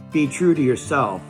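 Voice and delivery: put-on earnest, rising encouragement to the young; heartfelt advice. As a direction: urge them on warmly, building up. Pep talk over music.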